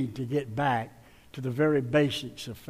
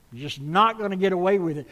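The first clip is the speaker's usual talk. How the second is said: faster, lighter echo of the warning; quicker repeat; 3 dB louder, faster than usual. Shown as a demonstration. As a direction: rattle it off again.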